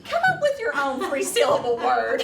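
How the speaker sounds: high, loud words broken by laughter; laughing. Real, not acted. Teacher laughing at a student's candy cane joke. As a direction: talk through a fit of giggles.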